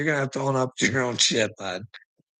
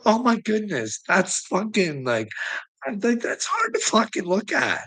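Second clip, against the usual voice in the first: mock shocked; 6 semitones higher than usual.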